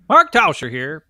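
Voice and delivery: loud, half-hearted impersonation attempt; Mark Tauscher. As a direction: announce yourself loudly in a badly faked voice. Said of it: "I can't do a Mark Tauscher".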